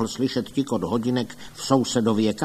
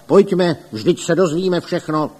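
loud, higher rallying call; exclaiming; 7 semitones higher, 7 dB louder than usual. A narrator's reading. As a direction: urge the others along. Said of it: "pan Rada Kdojek zvolal". (zvolá hlasitě)

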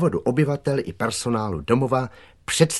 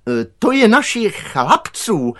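high, loud, slowed-down explanation; director calling out; 12 semitones higher, 7 dB louder than usual. A narrator's reading. Director calls to gardener from the pole, shouting. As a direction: shout the answer across the yard, strained. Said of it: "volal ředitel".

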